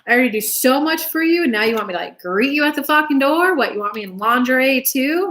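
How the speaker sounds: mock indignant outburst, pitch lifting; acted bad reaction. Partner bristles at a request to greet him, indignant. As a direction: play an affronted partner, mildly heated. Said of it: "might have a bad reaction".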